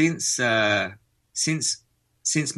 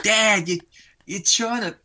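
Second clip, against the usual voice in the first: much higher mock kid's voice, tickled; imitating laughing son; 11 semitones higher, slower than usual. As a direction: mimic your boy cracking up at Dad. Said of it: "kills himself laughing. He's like".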